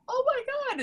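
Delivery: high breathless squeal; starstruck gasp. Retold or imitated. Fan answering Becky, high squeal. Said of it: "And I'm like".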